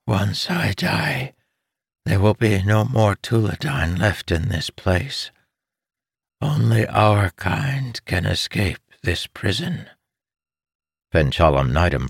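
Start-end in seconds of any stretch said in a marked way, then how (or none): 0.1-9.9 weak dying mother. Acted. Dying mother warning her son, faint and weak. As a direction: speak with little strength left. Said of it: "her voice was weak".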